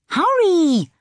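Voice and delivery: high, loud, impatient call; cross. A narrator's reading. Older sister calls crossly to her lagging little sister, cross. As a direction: call out crossly, pitched right up. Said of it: "Rosie repeated crossly".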